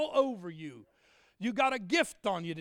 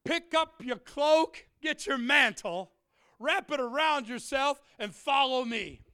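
slow, higher and louder solemn command; a lightly voiced holy summons; voicing Jesus calling Peter; 4 semitones higher, 4 dB louder than usual. Jesus telling Peter to follow him, a slow solemn call. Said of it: "And then he said".

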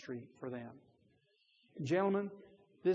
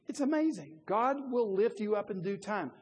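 excited; 5 semitones higher than usual. Real, not acted. Preacher lifts voice.

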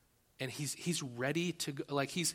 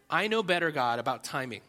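know-it-all; 6 dB louder than usual. Retold or imitated. Arrogant words voiced to God.

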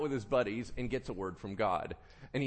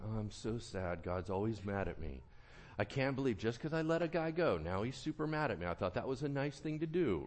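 softer, mopey whine; sulking king; 4 semitones lower, 4 dB quieter than usual. Retold or imitated. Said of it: "So he gets super sad".

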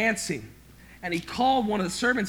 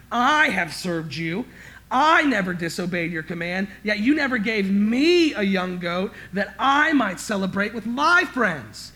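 resentful complaint; 6 dB louder than usual. Acted. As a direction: press every grievance at the father. Resentful son complains to father.

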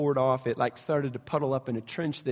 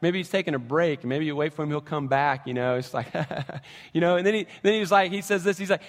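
mock-casual taunting; sarcastic. Elijah taunting Baal's prophets, sarcastic and light. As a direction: needle them with fake concern. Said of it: "he's a little sarcastic".

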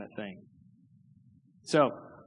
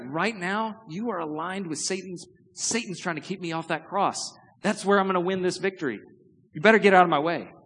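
stern Jesus; 5 semitones higher than usual. Acted. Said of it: "He's like".

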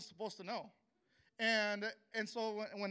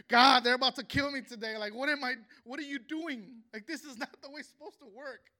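loud, high-pitched outburst of disbelief; raised, agitated voice, pleading and arguing; desperate protest to God; 6 semitones higher, 13 dB louder than usual. Retold or imitated. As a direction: cry out to God, demanding an answer. Pleading with God before being killed.

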